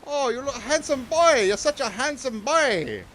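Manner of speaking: high, sing-song mock Asian accent; exaggerated high-pitched Asian-accent impression; imitated Asian accent. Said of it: "I try and do it all the time".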